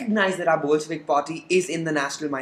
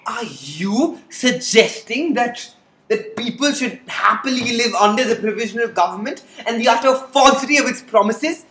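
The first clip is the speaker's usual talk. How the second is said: indignant challenge; 3 semitones higher than usual. Acted. Lenin rising to indignation.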